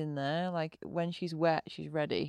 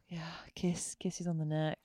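soft, intimate whisper; 6 dB quieter than usual. Real, not acted. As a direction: whisper it softly, savouring the thought. Intimate aside about what she likes.

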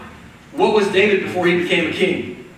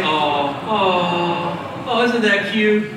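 cooing aw; 4 semitones lower, much slower than usual. Shown as a demonstration. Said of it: "Everybody say".

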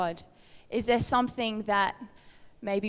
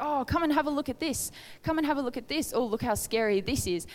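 higher, luring come-look-at-this voice; tempting distractor voice; 5 semitones higher than usual. Retold or imitated. The enemy luring someone from their inheritance, higher enticing voice. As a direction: coax them to look away like a tempter. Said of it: "It's like".

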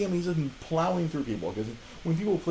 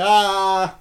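mock death cry; 7 semitones higher, 8 dB louder than usual. Retold player killed by Chainsaw Man.

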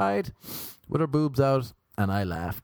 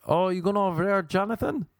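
mock friendly greeting; 8 semitones higher than usual. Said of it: "he'd be like".

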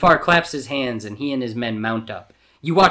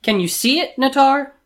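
high, excited villain; gloating excitement; 14 semitones higher, 6 dB louder than usual. A narrator's reading. Jafar showing Nattar his vision, gloating excitedly. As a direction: raise the pitch, carried away by the plan.

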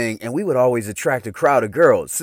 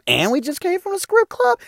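jumps way up high, hyped; high excited bragging; hyped-up brag. Retold or imitated. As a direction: brag it like you're buzzed and ready. Drunk bragging quote to buddy.

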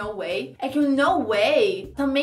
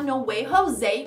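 Spanish accent; slower than usual. Shown as a demonstration. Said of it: "pronúncia espanhola".

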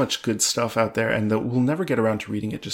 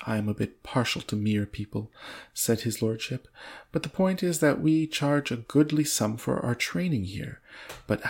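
measured storybook reading with lightly acted dialogue; story narration. A narrator's reading. Reading a novel aloud to a co-host, measured story narration. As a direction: read the tale out deliberately, lightly voicing the lines.

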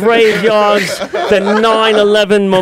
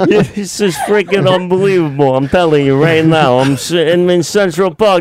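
light New York street voice; New York accent; 4 semitones lower than usual. Pretend. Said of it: "my best New York accent".

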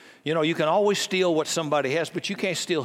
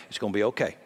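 lower, gentle reassurance to a worried family; a daddy soothing his girls, lower; comforting daddy; 5 semitones lower, much faster than usual. Retold or imitated. Father reassuring his wife and girls after a setback, gently lower. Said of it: "every daddy here would say the same thing".

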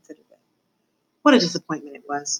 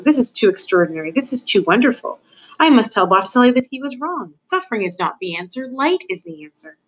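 lightly voiced rat in wonder; marvel, then declare a discovery; delighted, with high lifts on key words; enchanted rat; 6 semitones higher than usual.

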